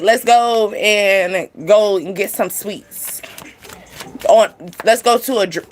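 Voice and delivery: slow, honeyed coaxing invite; mock sweet-talker luring someone out. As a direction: sweet-talk them into coming along, drawn out slowly. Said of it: "try to be a sweet talk".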